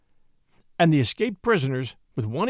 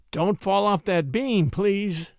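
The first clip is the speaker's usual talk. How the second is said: panting; 3 semitones higher, slower than usual. Acted. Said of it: "he panted".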